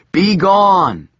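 loud, high command; commanding shout. Acted. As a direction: cast it out forcefully. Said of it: "said Joshua".

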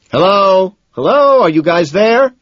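high, loud holler down the line; losing it, calling out loudly; frantic holler. A narrator's reading. McDermott checks his friends are still on the line, frantic holler. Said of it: "he hollers, losing it".

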